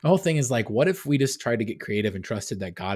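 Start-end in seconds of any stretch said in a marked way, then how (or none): 0.0-0.7 talking through laughter, higher and louder; laughing. Real, not acted. Host laughing as he gets back to his point, laughing. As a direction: try to restart the point while laughing. Trying to speak while laughing.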